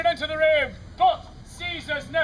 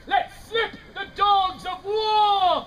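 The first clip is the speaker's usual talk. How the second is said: slow, drawn-out shout; Antony to the heavens, slow mock shout; hammed-up battle shout; 4 semitones higher, much slower than usual. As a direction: stretch it out like a war cry. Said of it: "raises his arms to heaven and says".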